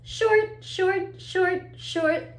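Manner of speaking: staccato "short", each one cut brief; short sound. Shown as a demonstration. Teacher modelling short sounds for children, brief and staccato. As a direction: say each "short" as a quick separate beat. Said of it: "the sounds sound long and short too".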